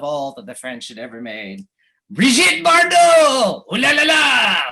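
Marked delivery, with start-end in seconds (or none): 2.1-4.6 high, loud and drawn-out gushing; mock swoon. Speaker to audience, naming Bardot as France's gift, in a mock swoon. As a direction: ham up a swooning admirer. Punchline on greatest French contribution.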